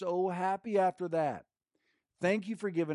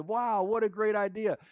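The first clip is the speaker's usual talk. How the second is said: impressed; 7 semitones higher, 4 dB louder than usual. Retold or imitated. Homeless man quoted.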